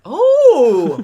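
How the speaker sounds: loud fake-shocked "Oh!"; a big theatrical oh; mock gasp. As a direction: act stunned by the news.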